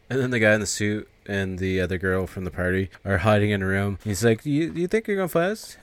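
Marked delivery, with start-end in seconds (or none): 4.4-5.8 mocking man. Man mocking girl in hiding.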